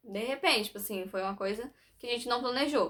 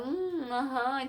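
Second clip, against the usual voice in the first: absent-minded murmur; 3 semitones higher, much slower than usual. Retold or imitated. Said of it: "eu ficava meio assim".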